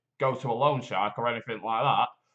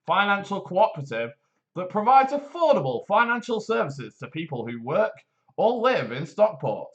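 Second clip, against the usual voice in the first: polished advert read, steady and upbeat; voiceover voice; 2 semitones higher than usual. Acted. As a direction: sell it like a radio ad announcer. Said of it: "Do you like my voiceover voice?".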